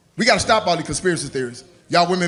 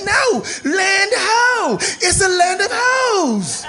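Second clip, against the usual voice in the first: shouting from crow's nest; 11 semitones higher, slower than usual. Acted. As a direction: holler down from the mast. Lookout shouting from the mast.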